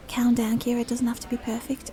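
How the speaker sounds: Dublin attempt drifting into Scouse; wobbly put-on Scouse accent; accidental Scouse accent. Shown as a demonstration. Reassuring herself while trying Dublin, a Scouse-sounding accent. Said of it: "now I'm doing, like, a Scouse accent".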